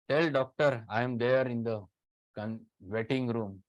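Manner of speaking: imitating a demanding patient. Patient at reception demanding the doctor, mock insistent. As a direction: play the pushy patient announcing himself. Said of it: "They talk like this".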